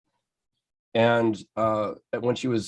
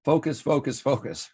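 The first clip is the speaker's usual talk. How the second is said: "Focus, focus, focus" chanted firmly, starting higher; mock-stern "focus" drill, each word separate; insistent American repetition; 5 semitones higher than usual. Shown as a demonstration. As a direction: drum in "focus" three times in a plain American accent. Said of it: "say in my American accent".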